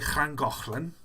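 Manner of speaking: "Llangollen" with a throaty Welsh ch sound; Welsh throat sound. Shown as a demonstration. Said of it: "a ch in your throat".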